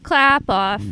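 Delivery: commercial slogan. Retold or imitated. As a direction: announce it like an old TV commercial. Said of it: "You'd go like this".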